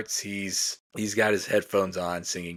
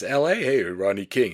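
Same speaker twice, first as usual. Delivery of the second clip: mock Italian host; 3 semitones higher, 4 dB louder than usual. Innkeeper guessing the tourists' hometown, loud mock Italian. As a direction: blurt it out like the pushy innkeeper. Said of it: "at one point just says".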